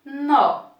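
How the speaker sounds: "nó" on its own, full open vowel; separated syllable. Shown as a demonstration. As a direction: give the last syllable of treino as a separate "nó". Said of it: "eu separo". ("nó" isolado, com a vogal bem marcada)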